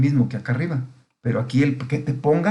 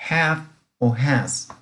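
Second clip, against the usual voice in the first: slow options; much slower than usual. Shown as a demonstration. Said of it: "¿Cuál de los dos auxiliares le pongo?".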